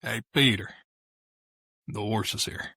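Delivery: put-on cartoon voice with a pause after the name; Joe Swanson. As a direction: impersonate the cartoon neighbour calling out. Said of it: "that was my rendition of it".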